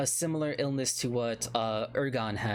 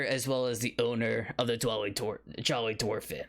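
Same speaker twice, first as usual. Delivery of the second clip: put-on flustered old dwarf. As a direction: brush off the topic in a panic. Dwarf introduces himself.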